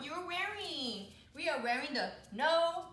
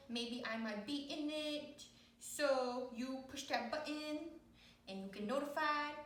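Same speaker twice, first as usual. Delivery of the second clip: lightly voiced dog. Voices the dog addressing viewers.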